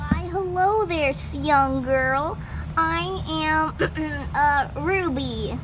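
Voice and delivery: put-on old woman voice, slow and loud; a sweet old lady calling out; granny voice. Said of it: "get my granny voice ready".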